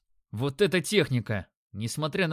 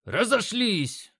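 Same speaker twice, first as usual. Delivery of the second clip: high, slow barked command; coach shouting; 7 semitones higher, much slower than usual. A narrator's reading. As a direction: bark it at the fighters. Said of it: "раздался крик тренера".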